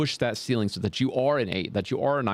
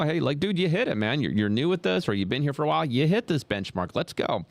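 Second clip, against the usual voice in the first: higher, excited pep talk to a worker; hyped-up praise; 5 semitones higher than usual. Retold or imitated. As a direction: cheer him on like a proud coach. Boss cheering an employee's win.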